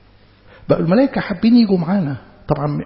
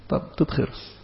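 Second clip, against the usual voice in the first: hushed command; 8 dB quieter than usual. Retold or imitated. Angel silencing Zechariah.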